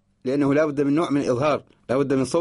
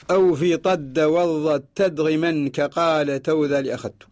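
verse recitation. Shown as a demonstration. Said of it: "ثم قال رحمه الله تعالى".

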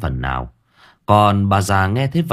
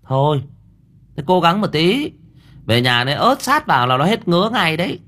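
curt; 9 semitones higher than usual. A narrator's reading. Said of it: "Cô Thơm sẵn giọng".

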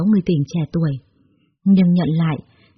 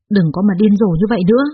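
louder, irritated snap; snapping; 4 dB louder than usual. Acted. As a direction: cut her off sharply. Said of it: "Thuận gắt lên". (gắt gỏng, to tiếng)

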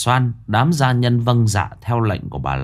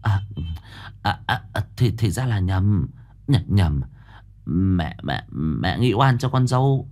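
embarrassed stammer, soft; 4 dB quieter than usual. Acted. A touch of flustered stammer. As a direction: fumble for words in embarrassment. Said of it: "Bây giờ bà ấp úng".

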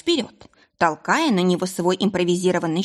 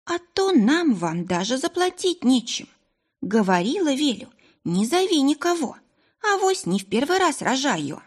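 tired mother's voice; 7 semitones higher than usual. Acted. Exhausted mother pleading.

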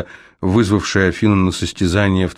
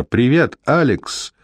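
cartoon princess; 6 semitones higher, slower than usual. A narrator's reading. Air elemental greets Alex.

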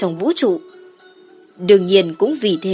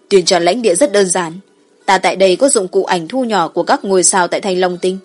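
dragon voice; 3 dB louder than usual. Acted. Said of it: "Kim Giáp Long Hoàng đối Tử Tĩnh cười nói".

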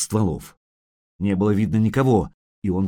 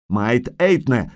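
calling out; 2 semitones higher, slower than usual. Acted. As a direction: call out slowly to hidden archers. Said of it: "крикнул он снова". (медленный громкий оклик)

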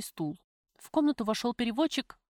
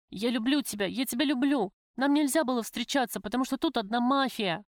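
raised, urgent confession of love; desperate declaration; 3 semitones higher than usual. Acted. Prisoner throws herself on her lover's neck, desperate. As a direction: pour it out in a rush of feeling.

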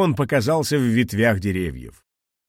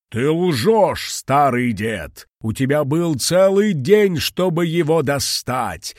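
higher, louder menacing dragon; hissed threat; 4 semitones higher, 4 dB louder, slower than usual. Acted. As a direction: accuse him with venom. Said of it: "прошипел дракон".

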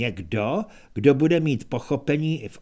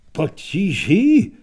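pomalá, hlasitější a stoupající; nechápavá otázka; 7 dB louder, slower than usual. Acted. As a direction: zopakuj slovo s úžasem. Minstrel nechápe. (zmatený minstrel opakuje Kohenovo slovo, udiveně)

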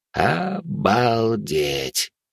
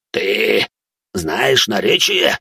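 demonic whisper; much slower than usual. Acted. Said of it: "прошипел разноглазый".

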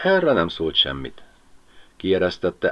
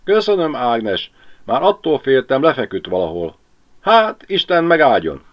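much higher, louder grateful woman; relieved Mari; 7 semitones higher, 6 dB louder than usual. Acted. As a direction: thank her in relief.

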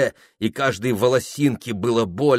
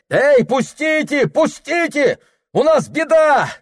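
high urgent calling; desperate shout; 13 semitones higher, 3 dB louder than usual. A narrator's reading. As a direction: hammer the door and yell. Son pounds the door.

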